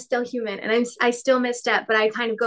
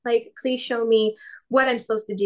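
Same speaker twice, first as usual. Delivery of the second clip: higher and fast, hammed-up begging; mock pleading prayer; 3 semitones higher than usual. Mimicking her own anxious prayer to God for a sign, fast and hammed-up. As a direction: rush it like an anxious plea. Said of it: "making fun of me for the three steps".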